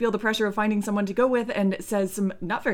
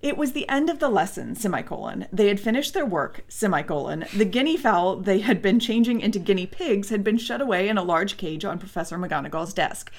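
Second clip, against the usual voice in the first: reading with punctuation spoken. Shown as a demonstration. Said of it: "throw in the punctuation".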